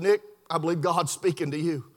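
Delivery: low, soft voice; hushed earnest witnessing. Retold or imitated. Preacher witnessing to a man, low and hushed.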